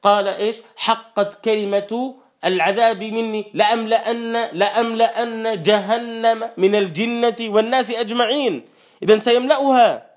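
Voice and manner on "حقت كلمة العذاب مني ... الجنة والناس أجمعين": slow melodic tajweed chant; Quran recitation. Acted. Preacher chanting the verse to the congregation, slow and melodic. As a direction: draw out each verse like a reciter.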